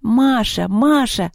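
high chanted name; cheering cry. A narrator's reading. Girl cheering her friend in a duel, excited cry. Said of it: "закричала из баскетбольной корзины Лёля".

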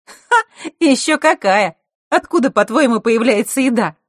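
put-on high, loud girlish exclaiming; excited. Scene: hostess boasting to her guest, loud and high. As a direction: Zakhara bursting with pride about the kitchen.

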